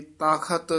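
"ਤਖਤ" as taa-khat, with aspirated kh; khakkha pronunciation. Shown as a demonstration. Teacher showing the letter khakkha, "ਤਖਤ" with aspirated kh. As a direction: sound out "ਤਖਤ" with a clear kh. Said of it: "ਖੱਖੇ ਨਾਲ ਉਚਾਰਨ ਕਰਨਾ ਹੈ".

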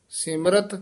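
ਸਿਮਰਤ with a rise, then a break; pause after ਸਿਮਰਤ. Shown as a demonstration. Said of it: "ਹਰ ਨਾਮ ਇਕੱਠਾ ਨਹੀਂ ਕਹਿ ਦੇਣਾ". (ਸਿਮਰਤ ਤੋਂ ਬਾਅਦ ਰੁਕੋ)

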